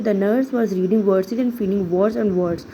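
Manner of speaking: slow, careful reading of the poem line; slow read-aloud. Shown as a demonstration. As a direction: read the line slowly for the class. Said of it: "तो इसमें same sound है nurse".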